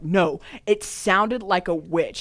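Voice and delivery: slow, drawn-out correction; emphatic insistence. Retold or imitated. Correcting people who said she was just laughing, insistent. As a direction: push back slowly and firmly on every word.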